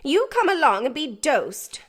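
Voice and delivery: awful. Acted. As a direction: order him off grimly. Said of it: "the awful words".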